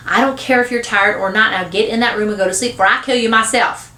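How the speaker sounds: mock shout of a fed-up mother; shouted scolding. Mother sending son to nap, mild shout. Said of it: "she shouts".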